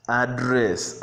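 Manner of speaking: "Address" stressed on the second syllable; verb pronunciation. Shown as a demonstration. Teacher lets students hear the difference, second-syllable stress on "Address". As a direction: lean on the last syllable of "Address". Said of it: "you can hear the difference".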